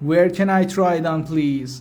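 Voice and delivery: slow, carefully spaced English; slow teaching demo. Shown as a demonstration. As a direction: spell it out slowly for learners. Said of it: "teacher repeats phrase for learners".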